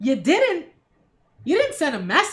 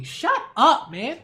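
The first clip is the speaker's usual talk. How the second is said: dismissive; 2 semitones higher, slower than usual. Real, not acted. Mocking the song lyric.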